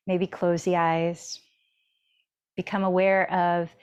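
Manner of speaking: unhurried body-scan guidance with long pauses; spacious, even meditation-teacher delivery; guided meditation. Real, not acted. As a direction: lead them gently inward, phrase by phrase.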